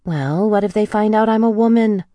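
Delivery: high, loud worried insistence; pressing. A narrator's reading. Worried heroine presses Michael about being found out. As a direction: push the question up loud and anxious. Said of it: "I pressed".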